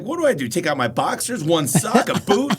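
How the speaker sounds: high, loud incredulous whine; mock outrage. Retelling comedian's airport bit, incredulous high whine. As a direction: act baffled at the airline's rule. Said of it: "he's like".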